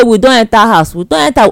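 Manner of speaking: high, loud happy announcement; proud announcement. Retold or imitated. Telling friends you married.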